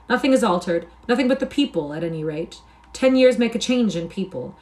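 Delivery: a lightly voiced Myles, eagerly pointing out each sight; a man home after ten years, naming everything he sees; eager returning knight. Myles reads his home village.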